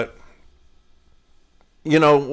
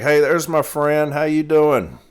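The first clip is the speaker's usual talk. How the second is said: higher, louder happy hello; cheerful greeting; 5 semitones higher, 5 dB louder than usual. Retold or imitated. Mail carrier greeting a longtime customer on her porch, cheerful. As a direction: call out brightly to an old friend.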